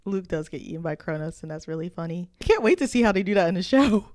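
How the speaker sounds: dry sarcasm building to mock eagerness; sarcastic. Real, not acted. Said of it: "Please note that was sarcasm".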